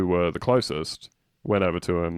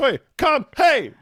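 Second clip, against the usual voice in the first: shouted put-on scream, much higher pitched; 6 dB louder than usual. Describing passengers calming someone on a plane, imitating people screaming. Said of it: "Start screaming".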